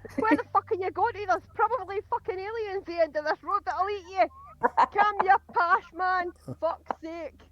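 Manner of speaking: loud, swearing rant at passing cars; road rage rant. Acted. Character furious at speeding drivers, loud road rage rant. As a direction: yell at the drivers while hauling the injured man.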